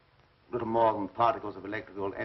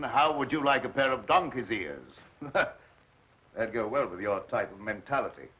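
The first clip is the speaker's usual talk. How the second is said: mocking taunt. Scientist taunting professor.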